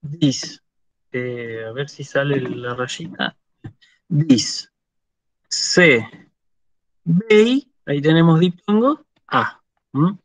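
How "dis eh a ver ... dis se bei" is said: "dis", "Se", "Bei" spoken as separate clipped syllables with pauses. Shown as a demonstration. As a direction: spell out the word one syllable at a time. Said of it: "si yo lo tengo que separar en sílabas". ("dis", "Se", "Bei" separados sílaba por sílaba)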